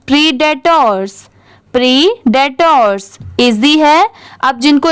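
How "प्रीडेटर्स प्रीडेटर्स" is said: प्रीडेटर्स run together as one word; at reading speed. Shown as a demonstration. Teacher shows beginners the joined-up word, at reading speed. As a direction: say प्रीडेटर्स briskly, without breaks between parts. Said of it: "इसे speed में पढ़ते हैं".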